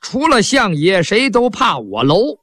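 slow and deliberate, rising on 了; slow full name. Shown as a demonstration. Showing which middle words get cut, said slowly. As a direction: spell out 除了相爷谁都怕我楼 slowly before cutting it. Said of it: "这把中间一掐".

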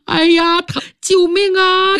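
高声呼救喊疼; 门外惨叫救命; mild cry for help. Acted. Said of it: "有人大叫起来". (高声叫疼喊救命)

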